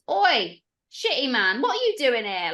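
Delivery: high, loud heckle; mock challenge. Guest heckling the spirit from behind, cheeky call-out. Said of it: "like that".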